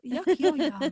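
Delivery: lightly voiced snooty old man; a hint of a stuffy old gent. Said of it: "like a really snooty old man".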